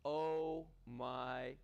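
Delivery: voice shaking from massager. Real, not acted. Host asks Lee to hear voice vibrate from massage. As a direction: voice wobbling from the vibration on the shoulder. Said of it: "can you hear that in my voice".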